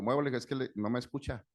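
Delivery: a driver blocked in, scolding over a car, mock angry; retold angry woman. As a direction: imitate her scolding with some heat. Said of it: "estaba muy enojada la señora".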